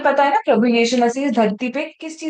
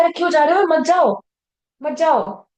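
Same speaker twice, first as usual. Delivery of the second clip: higher-pitched acted plea; urgent dissuasion; 5 semitones higher than usual. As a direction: plead with a friend to stay. Acting a friend's pleading dissuasion.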